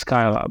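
Skyla said as SKY-la; alternative pronunciation. Shown as a demonstration. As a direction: say Skyla starting like the word "sky". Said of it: "thinking about pronouncing it".

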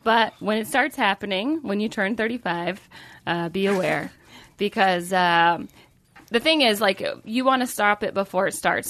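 smooth sponsor ad voice; ad read. Acted. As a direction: read it like a podcast ad. Reads sponsor ad.

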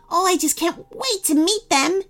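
put-on high-pitched excited gingerbread boy; eager anticipation. A narrator's reading. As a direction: gush with storybook excitement. Gingerbread boy eager for new friend.

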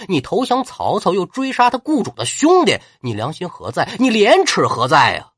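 loud, scornful tirade opening on a spat curse; furious rebuke. Acted. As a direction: tear into the traitor general. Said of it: "心头大怒啊". (刘备怒斥文聘，高声痛骂)

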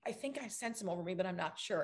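hushed, pretending to sleep; whispered thoughts. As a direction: actress lying still thinking. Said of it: "I'm like".

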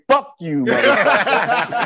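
high, drawn-out mock courtesy with laughter; mock-polite insult. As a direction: say the curse as a pretend polite reply, laughing. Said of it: "politely turn around and say".

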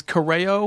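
Correo as "kuh-RAY-oh"; distinctive name pronunciation. Real, not acted. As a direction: stress the drawn-out RAY in Correo. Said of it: "I like the way you say her name".

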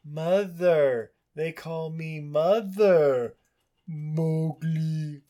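lightly voiced boy, slow; hint of the boy telling his mother. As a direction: draw it out slowly like a child learning English. Boy voicing as movie character.

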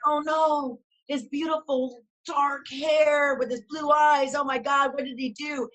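lightly dramatized dismay; mock dismay. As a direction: mildly wail over a lost treasure. Retelling dismay at shaved head.

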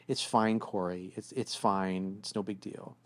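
put-on soft, slow sulky girlfriend; mock sulky fine. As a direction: say it's fine like you don't mean it. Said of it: "when she's like".

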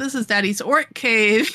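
lightly voiced know-it-all kid; trying to sound smart. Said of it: "she's trying to be all smart".

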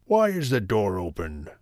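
gruff papa bear voice; deep, gruff Daddy Bear. A narrator's reading. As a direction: growl it like a big bear. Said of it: "in a deep, gruff voice".

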